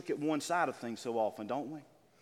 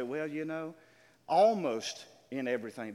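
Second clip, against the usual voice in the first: misquoting the verse. Shown as a demonstration. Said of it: "That's not what it says".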